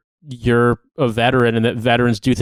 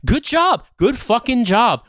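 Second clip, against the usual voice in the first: sarcastic praise; 8 semitones higher, slower than usual. Real, not acted. Sarcastic after the failures.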